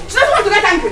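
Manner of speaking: normal talking voice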